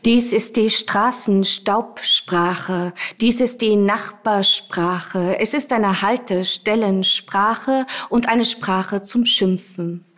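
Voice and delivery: slow, measured poetry recital; unhurried, deliberate verse reading; poem reading. Acted. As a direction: read the poem out slowly, word by word. Poet reads her poem aloud.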